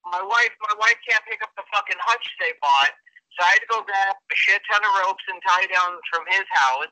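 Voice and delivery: tinny voice over a speakerphone; muffled speakerphone call; speakerphone sound. Real, not acted. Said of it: "if the sound is a little off".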